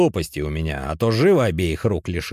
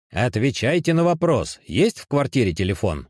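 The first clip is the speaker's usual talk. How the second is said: cutting him off; 6 semitones higher, 4 dB louder than usual. A narrator's reading. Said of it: "оборвал его Уваров".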